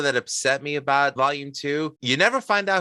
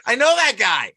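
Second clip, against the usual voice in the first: higher, louder, delighted; excited recognition; 9 semitones higher, 5 dB louder than usual. Retold or imitated. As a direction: point him out happily. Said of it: "I'm like".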